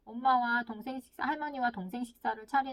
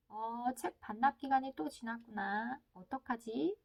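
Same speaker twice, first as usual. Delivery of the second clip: slow, mild remark from a patient parent; stating facts without blame; slower than usual. Acted. Parent notes overdue library book to child, non-blaming. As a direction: gently point it out, no accusation. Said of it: "일어난 사실만 지적하기로".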